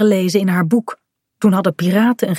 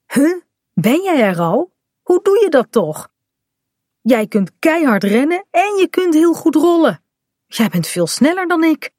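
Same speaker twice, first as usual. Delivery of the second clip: put-on high, incredulous child's voice; amazed boy; 9 semitones higher than usual. Bink finds Kaat won the rolling race, amazed. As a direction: gush in astonishment, pitched well up.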